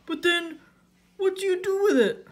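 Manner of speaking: high, confused question; Patrick. A narrator's reading. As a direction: ask loudly in bafflement. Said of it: "Patrick was still confused".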